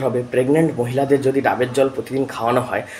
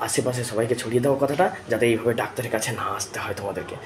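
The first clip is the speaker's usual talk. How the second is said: softer, hushed advice; speaking softly; 5 dB quieter than usual. Real, not acted. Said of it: "তাই আস্তে করে বলে দিলাম". (নিচু গলায়, আস্তে বলা)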